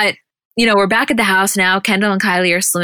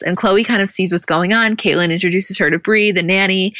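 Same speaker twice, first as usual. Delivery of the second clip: ordinary delivery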